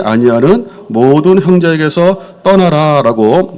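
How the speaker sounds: slow, measured Bible reading to the congregation; scripture reading. Acted. Pastor reading scripture to the church, slow and solemn. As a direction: read the verse out slowly and solemnly.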